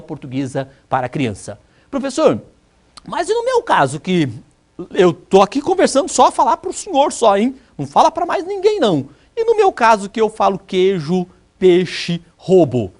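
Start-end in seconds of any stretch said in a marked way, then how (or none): 1.9-12.9 student voice. Retold or imitated. Teacher voices a student whispering confession.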